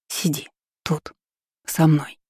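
gurgled, slow, in a strange voice; gurgling strange voice. A narrator's reading. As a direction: gurgle it out, not your own voice. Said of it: "Пробулькала чужим голосом".

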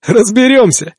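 over walkie talkie. Acted. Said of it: "Из рации раздался смешок".

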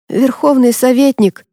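frightened quaver, barely holding it; trembling voice. Acted. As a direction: voice shaking with fear. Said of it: "дрожащим голосом сказал Грей". (дрожащий голос)

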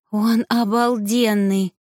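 slow, swooning rapture; a touch of breathless delight, drawn out slowly; rapturous sigh. Acted. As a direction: sigh it out like you're dreaming of him. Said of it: "восторженно вздыхая".

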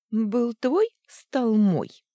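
громко и выше, с вызовом; брось это победно в лицо; торжествующе. Acted. Злорадный ответ в ссоре. (громкий злорадный вызов)

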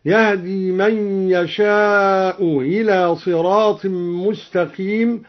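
إلى after يشاء with a softened hamza, gliding like "u-hila"; tas-hil on إلى. Shown as a demonstration. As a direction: blur the hamza of إلى toward a ya, no hard stop. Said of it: "وله فيها التسهيل أيضًا".

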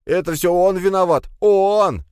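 high, loud blaming cry; frantic accusation. A narrator's reading. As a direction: shriek the blame at someone else. Pegasov accuses Krug while being dragged.

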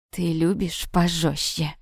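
low, slow, sinister question; demonic voice. A narrator's reading. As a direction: draw it out like a demon, menacingly. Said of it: "демоническим голосом спросил он".

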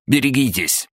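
high-pitched cry of alarm; warning shout. Acted. Ludwig warning the team before the leap, crying out. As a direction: call out a sharp rise in alarm.

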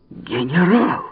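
high, startled call; startled cry. A narrator's reading. Digby cries out on seeing the general. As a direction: cry out in shock. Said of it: "вскричал Дигби".

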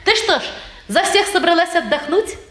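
laughing through a tease; chuckling at a lazy sister; teasing laugh. Acted. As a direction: poke fun at her with a laugh.

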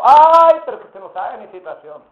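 un "Ay" chillado alto y fuerte, luego la queja; excusa quejumbrosa. Retold or imitated. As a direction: hermano que se hace la víctima. Hermano se excusa quejándose. (el hermano se excusa ante el pastor con un ay exagerado)

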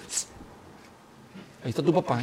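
chistido y voz baja de advertencia; aviso de mamá. Acted. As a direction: avisa con sigilo, como una mamá. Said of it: "tu mamá te dice". (advertencia materna en voz baja)

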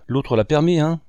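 jealous woman taunting her lover; angry sneer. A narrator's reading. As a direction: sneer at him in anger. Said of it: "Elle eut un ricanement de colère".

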